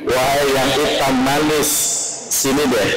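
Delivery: joking tender call. Retold or imitated. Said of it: "jangan dipanggil Humaira".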